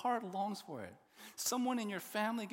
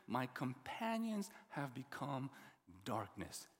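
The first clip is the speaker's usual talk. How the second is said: somber reading; 7 semitones lower, 6 dB quieter, slower than usual. Acted. Preacher reads psalm's bleak ending.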